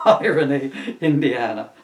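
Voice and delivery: laughing through the words; giggling while reading. Real, not acted. Laughing at own joke.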